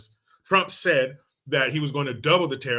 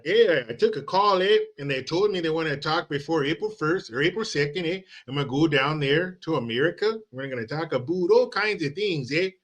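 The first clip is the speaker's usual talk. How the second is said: mock Canadian politician. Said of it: "if you believe that".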